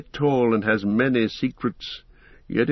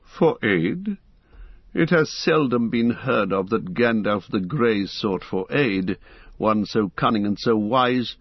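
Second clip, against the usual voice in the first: lightly voiced proud wizard, scornful; a hint of a cold, mocking wizard; haughty Saruman.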